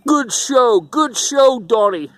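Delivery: a hint of an Italian mobster praising a kid's show; mock Italian mafia accent. Mobster praising young Donnie backstage, lightly mock Italian mafia accent. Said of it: "those Italian mafias talk?".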